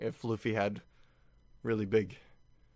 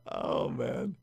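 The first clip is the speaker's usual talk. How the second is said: awed whisper; 12 semitones lower, 4 dB quieter than usual. Real, not acted. Awed reaction.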